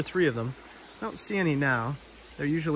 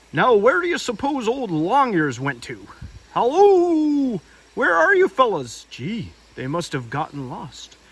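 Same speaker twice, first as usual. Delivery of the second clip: high, loud calling Tigger; cheery Tigger shouting hello; bouncy Tigger voice; 7 semitones higher, 7 dB louder, slower than usual. Acted. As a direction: holler for the lost friends as Tigger.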